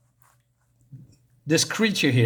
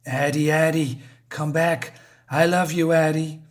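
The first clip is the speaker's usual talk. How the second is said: sick coaxing call. Acted. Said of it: "He kept calling me that same sick way".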